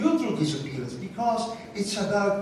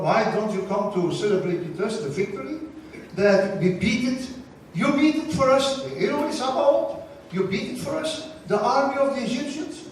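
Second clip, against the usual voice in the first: much higher, eager pleading; Moses urging God; 5 semitones higher than usual. Retold or imitated. Moses begging God to come celebrate, high and eager. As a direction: coax God to join the feast.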